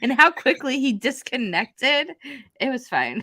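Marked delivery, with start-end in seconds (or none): 0.0-2.1 loud, laughing mock accusation; laughing shout. Teasing a guest who hung up, loud laughing shout. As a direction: shout the blame through laughter. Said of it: "I was like".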